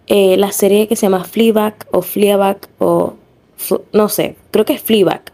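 Fleabag tried hesitantly in English, unsure of the vowels; unsure English pronunciation. Real, not acted. Apologizing to viewers, tries out Fleabag uncertainly. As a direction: test the word Fleabag a few ways. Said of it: "me perdonan por la pronunciación que voy a tener".

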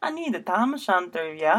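lightly faked Scottish accent; attempted Scottish accent. Asking for the hat, half-hearted Scottish accent. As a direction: have a shaky go at Scottish. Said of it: "work on your Scottish accent".

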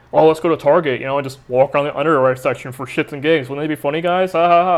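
mock upbeat pitch with forced laugh; fake cheerful. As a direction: sell it, fake breezy. Mock pitch of a Target trip.

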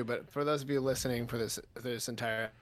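cutting out. Real, not acted. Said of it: "You, you cut out".

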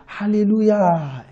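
soft, drawn-out, lukewarm praise; underwhelmed hallelujah. Acted. Congregation answering a testimony of salvation, lukewarm. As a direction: respond politely but unimpressed, stretching the word.

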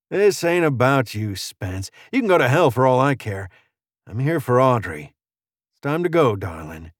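firm, dismissive gunslinger; lightly voiced vengeful stranger. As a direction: brush off the rival, claim Audrey.

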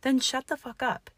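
high, loud furious yell; a furious yell at her. A narrator's reading. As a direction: yell it in his face. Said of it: "he yelled".

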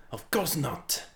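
bad French accent sliding toward Spanish; a French sailor in a half-hearted French accent; attempted French accent. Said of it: "No, wait, that's more like Spanish".

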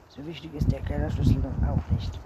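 mildly irritated mother's objection; annoyed. A narrator's reading. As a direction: push back with a touch of annoyance. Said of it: "verärgert". (leicht verärgert)

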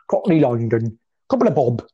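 hammed-up Cockney twang; jokey Cockney London voice; Cockney accent. Shown as a demonstration. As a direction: put on a mock Cockney accent. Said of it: "doing a slightly Cockney accent there".

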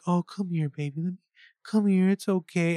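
high-pitched cooing mom imitation; weird mom mode. Mimicking a mother comforting her crying partner, weird mom mode. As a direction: coo like a mother to her baby. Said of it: "this weird mom mode".

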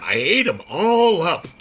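put-on high, slow sing-song children's verse; nursery rhyme voice. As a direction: bounce it like a nursery rhyme for kids. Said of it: "say it like a nursery rhyme".

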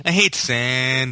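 very slow sulky delivery; mock sulky Anakin. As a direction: drag it out sulkily. Quoting Anakin line.

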